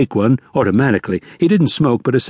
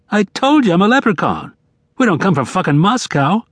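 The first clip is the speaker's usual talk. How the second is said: high, indignant retort; testy, pitched well up; exasperated insistence; 9 semitones higher than usual. A narrator's reading. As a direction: insist as if doubted once too often. Bearded man insists to doubting Shadow.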